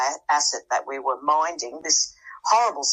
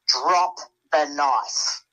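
threatening command; much slower than usual. Retold or imitated. To the woman pulling a knife in the cabin, slow threatening command. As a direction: make her freeze with a slow retold threat. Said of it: "in the most, uh, you know, threatening voice".

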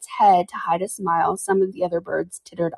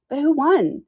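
plain reading voice

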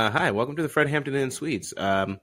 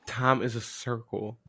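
slow, lower, softer echo; echoed impression; 3 semitones lower, 6 dB quieter, slower than usual. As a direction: parrot the impression slowly and quietly.

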